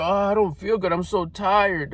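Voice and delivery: lightly imitated tired whining, "tired" stretched out; put-on tired excuse; mock weary complaint. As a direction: complain like someone worn out, dragging the last word.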